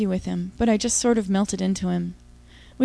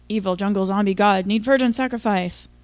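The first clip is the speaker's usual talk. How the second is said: louder, hammed-up zombie grunt; 5 dB louder than usual. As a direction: growl it like a jungle monster. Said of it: "he grunted".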